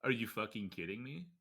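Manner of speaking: loud, high angry disbelief; furious at the betrayal; outraged. Acted. Outraged at the news.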